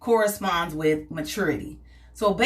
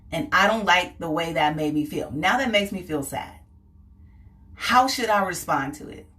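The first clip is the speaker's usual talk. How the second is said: calm adult reasoning. Retold or imitated. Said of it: "I'm processing it and saying".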